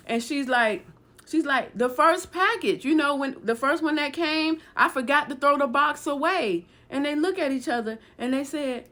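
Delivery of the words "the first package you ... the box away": higher-pitched retold explaining; pleading explanation. Woman explains the old box to intruders, pleading explanation. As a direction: explain anxiously as the accused woman, voice raised in pitch. She explains herself to armed accusers.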